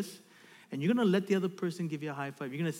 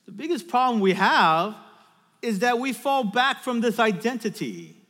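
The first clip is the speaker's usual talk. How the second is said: insistent sermon delivery; emphatic preaching; 4 semitones higher, 8 dB louder than usual. Real, not acted. Preacher warns about falling back from identity, emphatic preaching. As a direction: press each point on the congregation.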